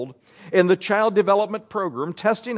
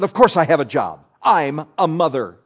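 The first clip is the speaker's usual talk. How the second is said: a lightly voiced indignant snap, a bit louder; snapping; 4 semitones lower, 3 dB louder than usual. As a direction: bite back at the clerk in mild indignation. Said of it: "Julie snapped".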